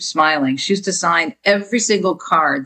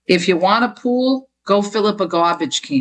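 put-on Jersey accent; 3 semitones higher than usual. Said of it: "in my mother's Jersey accent".

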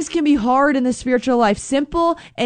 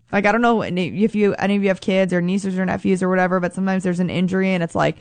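normal talking voice

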